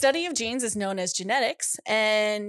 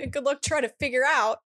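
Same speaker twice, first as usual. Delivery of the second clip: sassy; 6 semitones higher, 4 dB louder than usual. Retold or imitated. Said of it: "They're so sassy".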